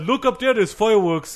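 high excited call. Retold or imitated. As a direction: point up at the sky, thrilled. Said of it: "someone said".

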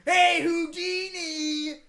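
slow, high, loud cry; hammy American heckler. Retold or imitated. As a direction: call out like a brash killer. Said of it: "an American guy who was like".

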